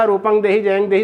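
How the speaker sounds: "रूपम देहि जयम देहि" with ng, rupang, jayang; nasal anusvara. Shown as a demonstration. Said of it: "इस प्रकार से भी कहा जा सकता है". ("रूपम", "जयम" में म् की जगह ङ्)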